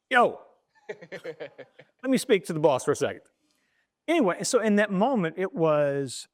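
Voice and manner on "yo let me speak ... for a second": slow, laughing brag on the phone; laughing gloat. Retold or imitated. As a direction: savor the scoop. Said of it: "I call the office".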